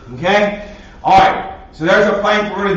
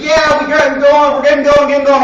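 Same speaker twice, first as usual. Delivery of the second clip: higher, louder eager chant; mock driver excitement; 7 semitones higher, 4 dB louder than usual. Parent in traffic mocking sudden go, higher and louder. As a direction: play the relieved driver finally moving. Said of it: "All of a sudden you're like".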